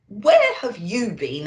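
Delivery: slow stern Santa. Acted. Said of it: "asked Santa".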